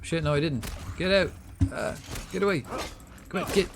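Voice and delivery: high, panicked yells at attackers; yelling while running away. Real, not acted. Enemy catches him, fights off.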